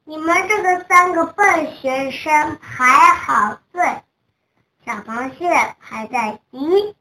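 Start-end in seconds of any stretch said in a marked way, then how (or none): 0.1-4.0 raised, louder voice scolding the class; angry scolding. A narrator's reading. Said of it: "熊老师现在发火了".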